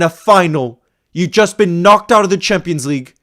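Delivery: fan's furious speech at the players; impassioned rant. Real, not acted. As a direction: lecture the team with real anger.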